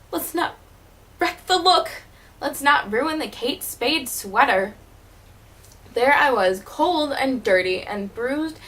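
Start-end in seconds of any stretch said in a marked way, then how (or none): 0.1-4.7 mimicking fussy mother. Mother voiced in retold story.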